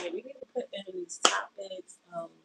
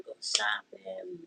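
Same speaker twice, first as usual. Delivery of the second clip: whisper; much slower than usual. Real, not acted. Slow whispered aside.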